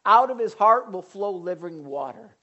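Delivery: high, loud proclamation; Jesus shouting. Retold or imitated. Jesus shouting in the temple, high and loud. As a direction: call it out across the temple. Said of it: "He shouts".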